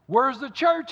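high, loud mock-dramatic demand. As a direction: demand an answer, hammed up. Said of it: "he demanded".

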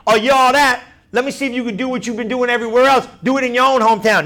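mock challenge from a doubting crowd; giving hard time. Preacher voicing hometown crowd challenging Jesus, mockingly. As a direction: needle him to prove himself. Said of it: "They're giving him a hard time".

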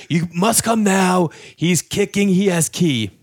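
put-on Eastern European accent. Old man phoning police about a door-kicker, Eastern European accent. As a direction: report it in a put-on Slavic accent. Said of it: "like, a fake phone call".

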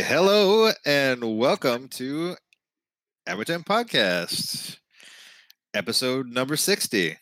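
slow, drawn-out radio host intro. Acted. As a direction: announce it like a game show host. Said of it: "throw a D J voice on".

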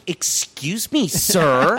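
slow, indignant "excuse me" rising on "me"; mock offended "excuse me, sir". Imitating the pissed-off woman scolding the laughing coworker. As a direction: play the offended rich girl, drawn out. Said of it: "she was fucking pissed".

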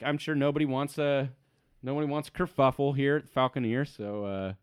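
lightly voiced worker smoothing things over; placating worker. Worker calming halfling and gentlemen, mildly placating. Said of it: "He's like".

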